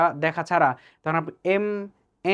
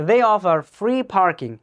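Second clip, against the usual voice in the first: slow dictation read; 3 semitones higher, 4 dB louder, much slower than usual. Shown as a demonstration. Teacher reading a listening-test sentence: very slow dictation. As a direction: read slowly like a test recording. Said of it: "খেয়াল করে দেখেন".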